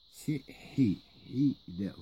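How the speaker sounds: hi from the back of the throat, not a French H; throaty hi. Shown as a demonstration. Teacher correcting the H of Hida'un, throaty. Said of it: "c'est pas le H".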